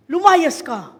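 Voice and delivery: loud casting-out command; loud command to the demon. Shown as a demonstration. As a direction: order it out firmly.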